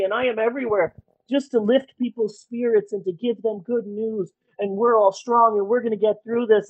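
lightly voiced smug famous star; a hint of a pompous celebrity address; mock celebrity. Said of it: "isn't that funny? Once the coronavirus hit".

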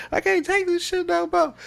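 high, fed-up imitated outburst; exasperated outburst. Spoofing the fed-up boyfriend scene, high outburst. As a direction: burst out like he's had enough. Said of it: "and he's like".

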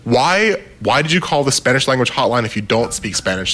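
irritated tech support engineer, mock exasperation; exasperated engineer. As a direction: rant at a hopeless caller. Exasperated engineer quoted on phone.

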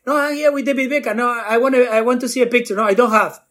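high, fast pleading to mom; excited plea. Retold or imitated. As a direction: rush it out, eager to convince.

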